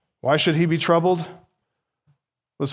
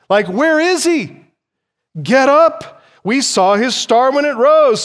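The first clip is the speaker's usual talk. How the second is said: put-on raised, loud Persian-accented Magi calling out; thick Persian accent; 7 semitones higher, 5 dB louder than usual. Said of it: "in this thick Persian accent".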